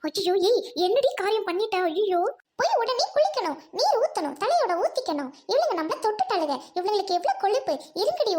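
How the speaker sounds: high-pitched scandalized outcry; acted horror. Woman horrified at being touched, scandalized outcry.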